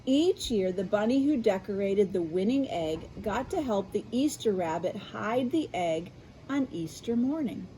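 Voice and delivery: bright storybook narration; reading to children. A narrator's reading. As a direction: read it like bedtime for kids. Reads picture book aloud.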